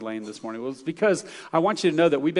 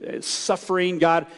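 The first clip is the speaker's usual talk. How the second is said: imitating a prophet's plea, raised pitch; acted-out complaint, insistent and higher; complaining prayer; 4 semitones higher than usual. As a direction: plead with God in mild exasperation. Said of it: "He was complaining to God".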